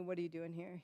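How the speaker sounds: controlled questioning. Retold or imitated. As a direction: ask it quietly, holding back.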